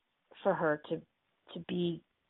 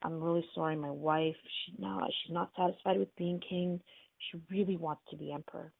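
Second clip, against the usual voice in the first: mildly sheepish apology; understated retold bashfulness; shy, embarrassed; 4 dB quieter than usual. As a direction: confess it reluctantly, a little embarrassed. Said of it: "really shyly and quite embarrassed".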